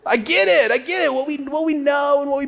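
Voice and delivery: words high and bright through laughter; laughing it out. Real, not acted. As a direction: still laughing, get the words out. Laughing after spouse joke.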